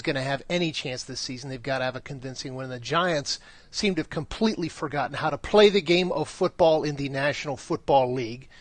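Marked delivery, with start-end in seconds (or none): 2.7-8.5 lightly done sports announcer read; a hint of a big broadcast announcer. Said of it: "uh, announcer voice there".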